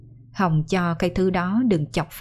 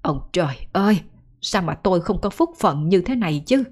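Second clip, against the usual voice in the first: mild mock wail to the sky; a mother cursing her fate, half-hearted; understated lament to heaven. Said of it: "đấm ngực bôm bốp mà than thở".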